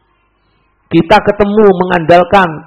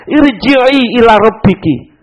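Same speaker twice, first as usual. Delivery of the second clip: inner whisper; 6 semitones higher, 4 dB louder, much slower than usual. Retold or imitated. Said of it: "ada bisikan".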